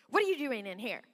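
put-on a sharp, unwelcoming demand to the child; a touch of a rude kitchen lady; curt scolding. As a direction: challenge the kid like an intruder. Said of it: "but there's a way to say it".

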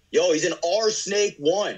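slow, high teammate yell; mock yell. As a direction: call it out like a panicked teammate. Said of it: "Everyone on my team is yelling at me".

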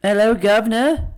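teasing British greeting, rising at the end; put-on British hello; mock British accent. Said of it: "I got to do my British accent".

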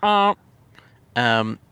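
short honking goose calls; imitated geese. Podcaster mimicking the geese outside the car, honking noises. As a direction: honk like a goose in short bursts. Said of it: "they're like".

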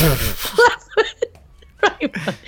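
weepy, strained imitation of a man plodding on; mock tearful trudge. Podcaster mimicking a man who can't go on, mock tearful. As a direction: plod through it in a put-on sob.

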